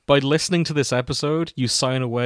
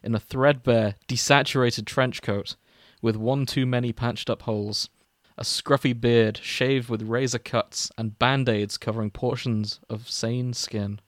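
mock-solemn fanfic reading, mostly at usual pitch; story narration. Podcast host reading a crack fic to cohosts, mock-solemn narration. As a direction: read the opening like a grave eulogy, tongue in cheek.

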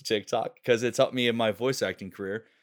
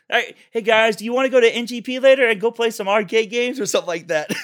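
higher, upbeat stoner hangout voice; Zen voice; 9 semitones higher, 5 dB louder than usual. Pretend. Improvised cartoon line giving a shout-out, high Zen voice. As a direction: casually invite the gang like a chill surfer. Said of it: "I'll say something".

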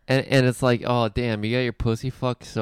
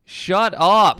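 high loud squeal; squealing shut up; 7 semitones higher, 8 dB louder than usual. Retold or imitated. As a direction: gush it like a fan. Mock cheer at comedy show.

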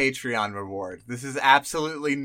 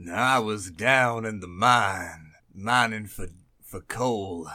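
cowboy voice; 4 semitones lower than usual. Pretend. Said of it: "our best cowboy voices".

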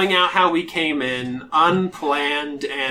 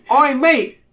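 imperious British drow lady; 10 semitones higher, 6 dB louder than usual. Pretend. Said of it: "my imperious British drow lady voice".

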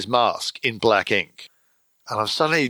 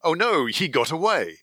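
sneering panto villain; 7 semitones higher than usual. Retold or imitated. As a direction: ham it up as a gloating evil overlord, laughing. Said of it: "and goes".

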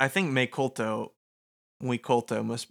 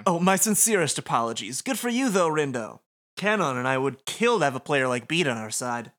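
flamboyant showman voice; 4 dB louder than usual. Acted. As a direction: flatter grandly. Voices Motoi.

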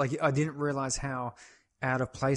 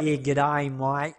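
mock broad Aussie Ocker accent; hammed-up Ocker Australian greeting; 4 dB louder, much slower than usual. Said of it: "the real broad Aussie Ocker accent".

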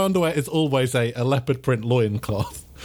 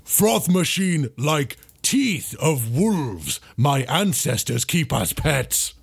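barbarian brute voice; 3 semitones higher, slower than usual. Acted. Barbarian answering the rival barista with an odd threat, slow brute voice. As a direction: talk like a primitive barbarian, slowly.

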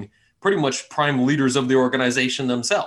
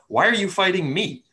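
higher, pleading dragon voice; dragon villain voice; 8 semitones higher, 3 dB louder than usual. Acted. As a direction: voice the cornered dragon, questioning. DM voices green dragon cornered.

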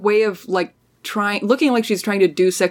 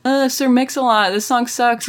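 imitating grumbling online critics; lightly acted gripe, starting a bit higher; mock complaining; 3 semitones higher than usual. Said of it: "like, people complaining, being like".

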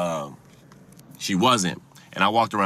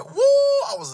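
much higher shout of anger; loud heated yell; real shout; 4 dB louder, slower than usual. Real, not acted. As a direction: let the anger burst out. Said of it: "I was so mad".

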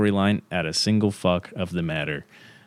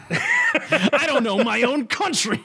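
self-mocking; slower than usual. Real, not acted. Laughing at own ignorance.

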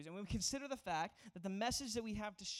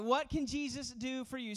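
hard sell ad; 3 semitones higher, 7 dB louder than usual. Retold or imitated. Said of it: "It's like".

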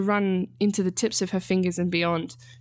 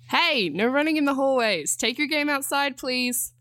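called out; 7 semitones higher than usual. A narrator's reading. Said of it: "Danny yelled after them".

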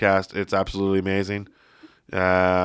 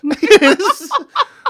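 real laughter; 8 dB louder than usual. Real, not acted. Laughing during impression.

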